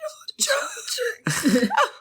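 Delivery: high, voiceless strangled croak; choked gasp. Acted. Brother grabbed by the neck, choked gasp. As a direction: squeeze out a whispered, throttled cry. Acted strangled cry of the name.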